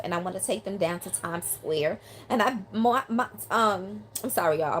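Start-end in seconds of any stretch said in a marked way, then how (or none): 2.3-4.0 halting, stumbling over words; stuttering. Real, not acted. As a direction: trip over the first words. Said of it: "I'm mumbling and stuttering".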